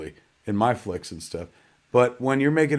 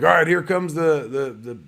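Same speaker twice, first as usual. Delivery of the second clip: slightly raised mock director's call-out, stumbling over cues; imitated calling out; 2 semitones higher than usual. Director calling out imaginary effects on set, mock calling out. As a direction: lightly imitate a director cueing unseen effects. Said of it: "you see Zach literally calling out".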